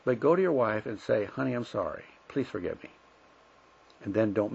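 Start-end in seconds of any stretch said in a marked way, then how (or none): 1.2-2.9 humble apology. Acted. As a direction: ask forgiveness quietly, with no argument. Models an unconditional apology to wife.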